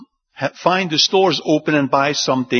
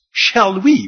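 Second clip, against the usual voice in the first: sarcastic; 3 semitones higher, 4 dB louder than usual. Retold or imitated. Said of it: "they say it with a lot of sarcasm".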